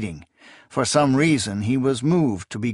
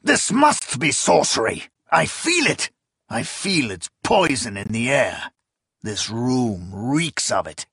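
frantic accusation. Acted. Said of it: "he cried".

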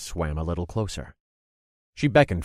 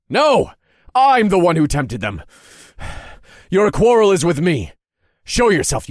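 high desperate yelling; screaming; 12 semitones higher, 10 dB louder than usual. Acted. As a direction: scream to draw his anger. Narrator screams at the hidden master.

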